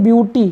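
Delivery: ब्यूटी said byoo-tee, no aw vowel; ब्यूटी with yu sound. Shown as a demonstration. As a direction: glide b into yoo in ब्यूटी. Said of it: "लेकिन इसका उच्चारण बिल्कुल different है".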